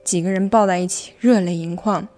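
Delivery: Mandarin with a light Hong Kong accent. Real, not acted. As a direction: Zhejiang speaker using Hong Kong-style Mandarin. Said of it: "一个浙江人是怎样说香港普通话的".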